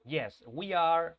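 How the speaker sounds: slow classroom drill; slow emphatic model. Shown as a demonstration. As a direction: stretch out "Yes, we are." with a push. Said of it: "respuestas cortas".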